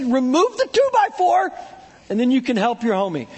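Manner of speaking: breezy Jesus paraphrase; paraphrasing Jesus. Retold or imitated. Pastor quoting Jesus to church, lightly voiced. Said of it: "No, he said".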